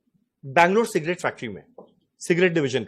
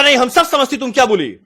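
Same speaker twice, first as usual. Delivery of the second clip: higher, offended South Indian voice; mock South Indian accent; 4 semitones higher, 4 dB louder than usual. Offended man won't be fooled, mock South Indian accent. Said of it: "हम उसका tone का ही मजाक उड़ा रहे हैं".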